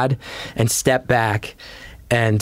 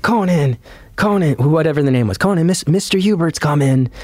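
calling a name across the backstage, raised; urgent calling out; 3 semitones higher than usual. Retold or imitated. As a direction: call him urgently before the cue.

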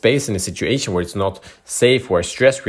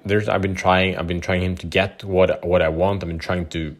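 hopeless wife; 3 semitones lower, 4 dB quieter than usual. Retold or imitated. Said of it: "She lost, like".

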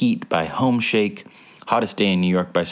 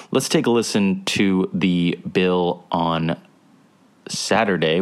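robot voice. Real, not acted. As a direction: read the list like a robot. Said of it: "Why am I talking like a robot?".

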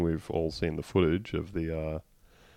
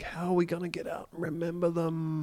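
mock panicked; 9 semitones higher, 6 dB quieter than usual. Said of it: "We're like".

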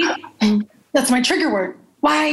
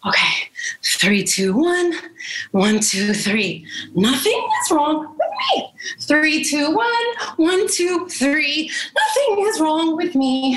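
calming mantra. Acted. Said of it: "she begins her mantras".

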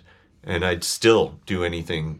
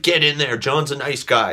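encouraging upbeat voice; 6 semitones higher than usual. Retold or imitated. Voicing Cindy pushing him.

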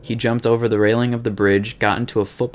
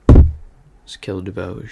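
slow, louder mock Australian; Australian accent; 7 dB louder, much slower than usual. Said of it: "keep up with the Australian accent".

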